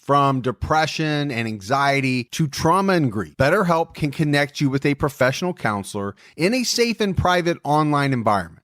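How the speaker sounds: upbeat sponsor read. Acted. Host pitching BetterHelp to listeners in an ad read. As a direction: sell it like a podcast ad.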